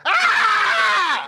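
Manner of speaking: high startled laughing shout; sudden yelp. Real, not acted. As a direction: break off with a surprised cry. Reading joke, breaks off.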